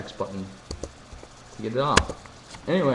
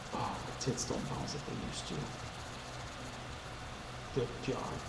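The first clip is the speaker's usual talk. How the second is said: much softer muttered aside; mock complaint; 14 dB quieter than usual. Complaining to himself, much softer. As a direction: grumble it under your breath.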